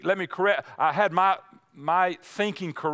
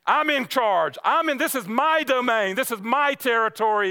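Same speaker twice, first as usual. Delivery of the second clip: a hint of a swaggering lion, pitched higher; boastful lion; 5 semitones higher than usual. Lion boasting to the sufferer, mildly hammed-up. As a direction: puff up and crow it like the lion. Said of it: "roaring lion is just saying".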